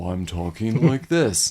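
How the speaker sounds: low, slow drawl like dragging tape. Shown as a demonstration. Demonstrating the Talkboy's slowdown feature, slowed-down deep voice. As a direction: drop deep and stretch every word slowly. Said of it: "And he slows down".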